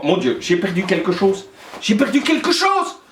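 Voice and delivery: mock alarm. Teacher pretends he lost his German accent, in mock alarm. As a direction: play up a mock panic. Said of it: "J'ai perdu mon accent".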